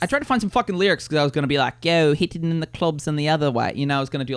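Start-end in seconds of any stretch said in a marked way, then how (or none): 1.8-3.7 mock Aussie rapper; amateur Australian accent on a rap line; bad Australian accent. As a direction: put on a dodgy Aussie twang. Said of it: "like, the Australian thing".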